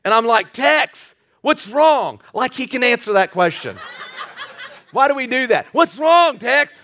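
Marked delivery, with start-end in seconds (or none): 0.5-2.2 raised pitch, calling to a choking dog; retold concern, pitched well up; mock worried call. 5.7-6.7 high-pitched, hammed-up concern for a pet; mock worried call. Replays his question to the dog.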